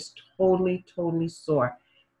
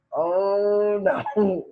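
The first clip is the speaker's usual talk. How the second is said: laughing dad; 3 semitones higher than usual. Retold or imitated.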